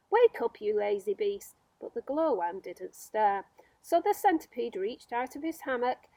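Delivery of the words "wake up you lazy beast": rude yell. Acted. Centipede yelling at the sleeping glowworm, loud and rude.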